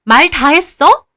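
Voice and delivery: loud, high, slow menacing challenge; furious challenge. Acted. Aunt confronts mother, furious. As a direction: spit each word out.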